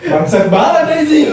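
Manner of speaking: high, slow laughing curse. Real, not acted. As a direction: laugh through the cursing, cringing. Cringing and laughing at friends.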